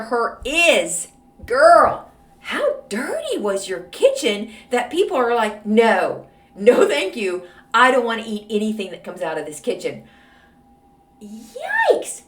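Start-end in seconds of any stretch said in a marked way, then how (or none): 1.5-10.0 sassy loud scolding. Real, not acted. Host scolds letter writer. 11.2-12.2 high yikes. Real, not acted. Host reacts to dirty kitchen.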